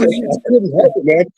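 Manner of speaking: amused, half-sorry excuse; sheepish. Retold or imitated. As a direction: prankster laughing his apology. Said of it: "I said".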